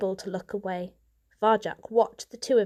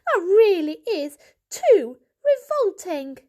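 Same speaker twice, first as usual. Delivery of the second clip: loud, high disgust; 10 semitones higher, 7 dB louder than usual. A narrator's reading. Mother appalled at her son's talk, loud disgust. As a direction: recoil in disgust, louder. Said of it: "hissed Mother".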